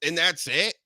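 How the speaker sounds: high-pitched incredulous venting; exasperated rant. Real, not acted. Sports host venting about an overpraised punter, exasperated. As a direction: blow off steam in high, stretched questions. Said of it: "I gotta blow off some steam".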